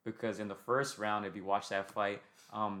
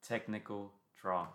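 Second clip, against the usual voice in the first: ring announcer voice; slower than usual. Retold or imitated. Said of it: "read the scorecards as he read it".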